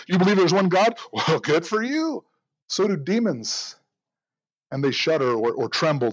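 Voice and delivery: lightly sarcastic retelling of James. Retold or imitated. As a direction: dryly needle the listener: well, good for you. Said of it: "James says it almost sarcastically".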